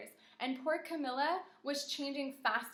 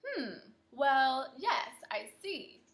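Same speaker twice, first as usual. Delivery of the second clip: lightly voiced musing doctor, slow; a hint of a pondering doctor; 5 dB louder, much slower than usual. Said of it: "Are you changing your voice for the doctor too".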